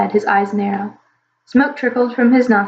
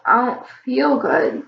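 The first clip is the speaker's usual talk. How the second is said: sick; 3 semitones higher, slower than usual. Acted. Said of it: "sick little dragon repeats".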